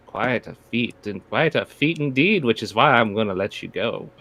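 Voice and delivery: lightly voiced smug gentleman villain; mustache twirling villain. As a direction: purr it out like a scheming dandy. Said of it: "You hear a familiar voice ... twirling his mustache".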